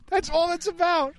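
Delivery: high-pitched, slow mock echo; mocking high repeat. Repeats the same line, mocking.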